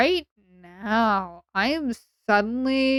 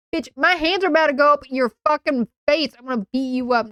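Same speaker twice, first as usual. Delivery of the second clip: mock threat; 5 semitones higher, 6 dB louder than usual. Mock threat, then says joke.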